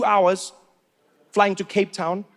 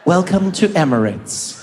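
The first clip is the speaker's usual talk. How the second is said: slow airline announcer; slower than usual. Retold or imitated. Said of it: "the video comes on".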